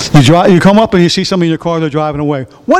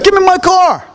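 mock call out; 10 semitones higher than usual. Acted call at thief.

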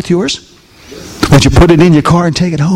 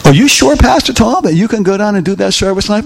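pitched up, fussy worried church member; high doubting congregant; 4 semitones higher than usual. Retold or imitated. A congregant doubting Pastor Tom, high worried asking. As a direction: lightly mimic a fretting member.

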